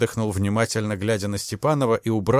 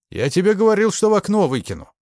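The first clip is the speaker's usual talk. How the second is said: higher, louder shouted threat; furious threat; 10 semitones higher, 5 dB louder, faster than usual. A narrator's reading. The major choking Ignashevich, yelling his threat. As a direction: bellow it while pinning him to the wall.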